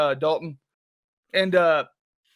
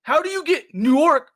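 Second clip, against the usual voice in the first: higher, louder and slow, baffled; incredulous question; 5 semitones higher, 4 dB louder, slower than usual. Retold or imitated. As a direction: spell out the absurdity slowly. Baffled at friend's hometown.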